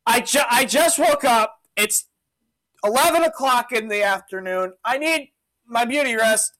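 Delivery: a touch of a fed-up, hungover governor; exasperated Pilate. Retold or imitated. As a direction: brush the crowd off, fed up. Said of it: "He's just like".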